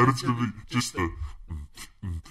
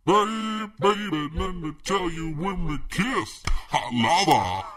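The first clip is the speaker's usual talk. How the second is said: A singer impression; 9 semitones higher, 3 dB louder than usual. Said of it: "he's the classic deep voice singer".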